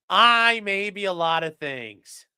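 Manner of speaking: slow, hammed-up declaration with a long I; Grandpa Simpson. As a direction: draw out I and declare it slowly, as a joking quote. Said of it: "Grandpa Simpson's like".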